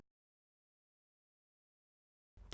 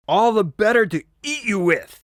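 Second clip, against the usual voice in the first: high put-on granny voice before pouncing; sweet disguise hiding the threat; wolf as grandmother; 8 semitones higher than usual. Wolf answers the girl one last time, high fake granny voice. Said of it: "wolf's final answer".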